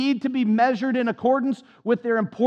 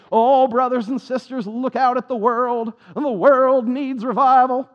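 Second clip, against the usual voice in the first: mock revival preacher, slow and raised; eighties Southern Baptist preacher; 3 semitones higher, 5 dB louder than usual. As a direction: lightly parody an old-time revival sermon. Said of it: "they all preach like Southern Baptists from the eighties".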